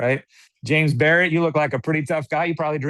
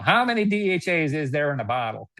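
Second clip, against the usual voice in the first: put-on Alabama accent; 3 semitones higher than usual. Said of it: "now I'm doing Alabama".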